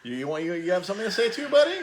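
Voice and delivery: high-pitched talk to a little buddy; playful coaxing. Real, not acted. Host turning to Tiger who wants to contribute, playful coaxing. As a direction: lift the voice into an indulgent question.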